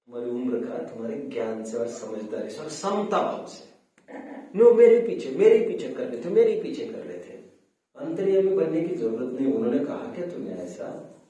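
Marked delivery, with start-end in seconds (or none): 4.6-7.4 higher, loud opening, then easing slightly; insistent mock protest. Elder insisting people acted behind their back, mock indignant. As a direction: imitate a stubborn accuser cutting in.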